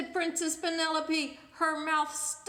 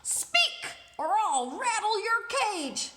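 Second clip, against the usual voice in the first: higher, louder bratty threat; threatening princess; 7 semitones higher, 8 dB louder, slower than usual. Acted. Princess threatening her parrot, shrill angry shout. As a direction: threaten the bird like a spoiled brat. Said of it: "threatens the parrot".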